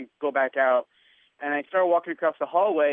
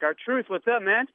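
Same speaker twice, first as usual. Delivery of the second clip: much higher-pitched casual greeting; friendly hail; 7 semitones higher, slower than usual. Retold or imitated. Greeting a wrestler spotted on his phone, friendly hail. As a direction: hail him like an old pal.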